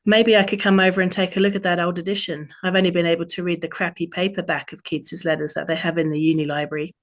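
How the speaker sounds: a playful, self-mocking Australian twang; terrible Australian accent. Autumn greets Robin on her birthday, mild Australian accent. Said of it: "terrible Australian accent I'm about to do".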